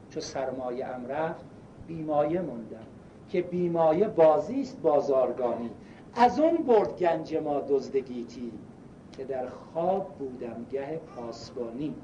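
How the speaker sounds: slow measured verse recital; poem recitation. Acted. Preacher recites the poem he read the old man, measured. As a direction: recite it slowly, line by line.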